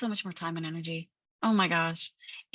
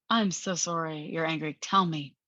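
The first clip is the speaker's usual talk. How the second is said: lower-pitched, tender apology; gentle consoling voice, pitched down; acted sympathy; 4 semitones lower than usual. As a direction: invite her gently to open up. Befriending the angry part.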